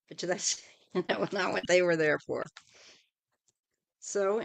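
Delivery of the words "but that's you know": ordinary talk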